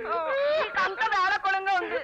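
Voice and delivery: slow, half-laughing half-crying reproach; crying through a wry laugh, very slow; tearful complaint. Acted. Daughter weeps to her lover, crying with a slow broken laugh. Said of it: "నేను ఏడుస్తూ ఉంటే".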